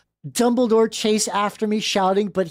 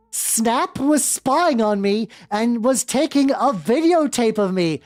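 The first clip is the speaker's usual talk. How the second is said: raised, higher outraged cry; hammed-up indignant shriek, slower; mock scream; 5 semitones higher than usual. Ebony catching the teachers spying, mock outraged. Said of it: "and screamed".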